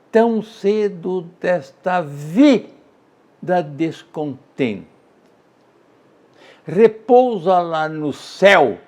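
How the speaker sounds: very slow, drawn-out beats fading to breath on "triste"; scanning the meter. Shown as a demonstration. Teacher counting syllables on his finger, very slowly. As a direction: stretch "tão cedo desta vida" beat by beat. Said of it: "olha o dedo aqui".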